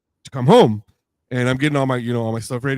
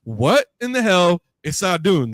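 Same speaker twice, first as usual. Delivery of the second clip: exasperated; 5 semitones higher, slower than usual. Retold or imitated. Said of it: "I'm like".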